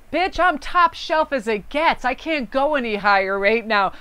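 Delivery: yelling at ego. Retold or imitated. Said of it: "I yell at my ego".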